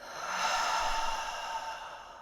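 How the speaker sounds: long, airy sigh out; long exhale. Shown as a demonstration. Meditation teacher exhales with the listener, long sigh. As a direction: let out a long unvoiced breath. Deep breath out during meditation.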